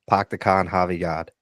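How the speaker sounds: light Boston accent, dropped r's. Shown as a demonstration. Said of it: "That's how you get into a Boston accent".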